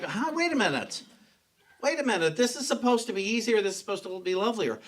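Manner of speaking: mock temper tantrum. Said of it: "I will throw a temper tantrum".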